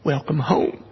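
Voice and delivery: mild imitation of a New York accent; Northern accent. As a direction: give it a hint of a Bronx customs agent. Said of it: "northern accent, he said".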